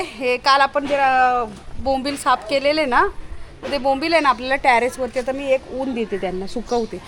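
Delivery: ordinary delivery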